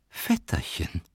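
low, soft, restrained appeal; placating address. A narrator's reading. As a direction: address him softly while chewing. Matvei placates while chewing. (leise, beschwichtigend)

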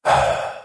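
a low, heavy sigh of bitterness; bitter sigh. A narrator's reading. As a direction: breathe out the weight of the disaster. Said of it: "تنفس بمرارة وقال". (تنهيدة مريرة منخفضة)

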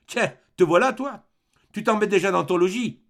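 loud, high greeting; exclaiming. A narrator's reading. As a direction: cry out on spotting your son. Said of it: "Roland s'écria".

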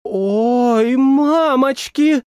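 high, drawn-out startled squeal; startled cry. Acted. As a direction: squeal it out in dismay. Character startled in kitchen.

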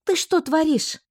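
angry. Acted. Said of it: "справившись со злостью".

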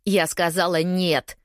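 a touch of a shout, each word weighted. Acted. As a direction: spell out the refusal slowly. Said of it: "кричала я".

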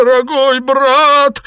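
high, slow, loud whine; whining. Acted. Xuepan whines to Liu Xianglian for mercy. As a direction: drag it out like a whimpering plea. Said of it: "заныл Сюэпань".

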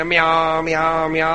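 light imitation of a cat's meow; mock meowing. Preacher mocking flatterers who trail the boss, mock meows. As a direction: mew like a fawning cat, half in jest. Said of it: "എന്ന് പറഞ്ഞിട്ട് പിന്നാലെ നടക്കും".

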